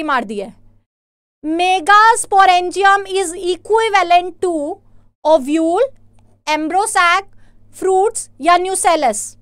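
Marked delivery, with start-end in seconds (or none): 1.4-9.4 very slow, word-by-word dictation pace; teacher slowly reading the quiz question to students; reading question aloud. Acted. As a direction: read out the question and its options slowly. Reads the next question aloud.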